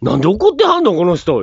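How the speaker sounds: indignant mock patient. Retold patient complaint.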